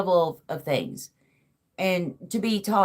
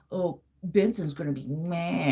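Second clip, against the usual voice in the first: cartoon character voice; 3 dB quieter than usual. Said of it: "editing it".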